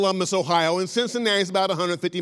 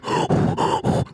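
heavy gasping breath. Retold or imitated. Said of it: "breathing a little harder".

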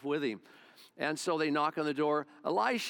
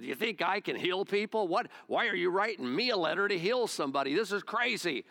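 mock outraged king, pitched higher; worked up king; 4 semitones higher than usual. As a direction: play the king all worked up and indignant. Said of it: "he got all worked up about it".

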